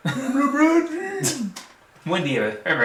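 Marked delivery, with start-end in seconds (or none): 0.1-1.4 amused drawn-out name. Real, not acted. Mocking the LeBron picture.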